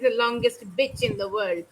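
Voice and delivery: beach said as "bitch", short i; short lax vowel in bitch; imitated mispronunciation. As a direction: repeat the slip with a short i in bitch. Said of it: "how it sounds when he says".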